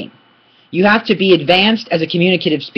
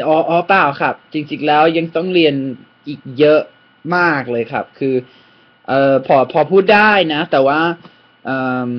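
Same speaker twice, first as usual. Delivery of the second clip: modest demo; much faster than usual. Shown as a demonstration. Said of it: "Something like this".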